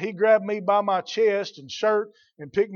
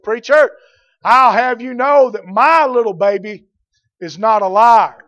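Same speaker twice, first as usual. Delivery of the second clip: indignant loud mother; 9 dB louder than usual. Retold or imitated. Offended mother protesting to the preacher, loud and indignant. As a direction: scold the preacher like an offended mom.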